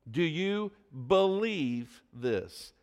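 "believe" stretched slowly between short pauses; slow down and weight "believe"; stress on believe. Shown as a demonstration. Preacher puts pointed question to the congregation, stressing "believe". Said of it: "inflection and emphasis on the word believe".

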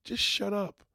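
loud, high snap; angry shut up; snapped shut up. Retold or imitated. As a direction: bark it at him. Venting at nephew.

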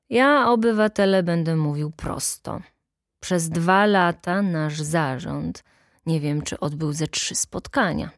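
lightly voiced plain-spoken official; plain-spoken secretary. Secretary criticising the board at the meeting, mildly blunt. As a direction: complain bluntly, dragging out the words.

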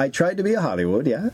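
put-on broken English in a lightly done foreign accent; a light mock foreign accent. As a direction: play a foreign director with a hint of an accent. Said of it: "I don't know what the accent is now".

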